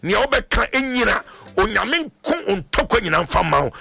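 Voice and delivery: driving blessing that drops at amen; fervent prayer. Real, not acted. Prays for a caller on air.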